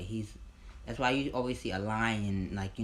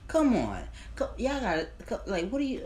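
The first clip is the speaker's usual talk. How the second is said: 1 exclaiming disbelief; 11 semitones higher, 5 dB louder than usual. Retold or imitated.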